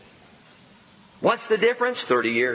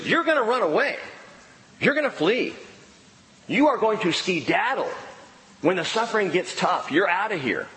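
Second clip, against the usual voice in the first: higher, matter-of-fact declaration; Jesus telling the disciples they will flee, as plain fact; blunt statement of fact; 5 semitones higher than usual. Acted. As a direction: state it flatly as certain fact. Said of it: "He says it as a statement of fact".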